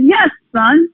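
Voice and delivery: slow, rising excited answer to son; excited reply. Retold or imitated. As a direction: draw it out with building enthusiasm. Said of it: "And I said".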